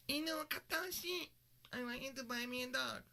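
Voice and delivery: put-on high, sugary little girl asking for a dog; cute anime girl voice. Little girl begging her date for a dog, high and cute. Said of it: "when I make that voice".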